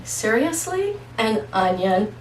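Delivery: slowing into a put-on voice of disbelief; mock outrage at an onion; incredulous refusal. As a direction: balk at the idea of an onion.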